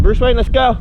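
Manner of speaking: high, loud call to a dog. Shown as a demonstration. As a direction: call the dog cheerfully from afar. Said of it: "So if I call him".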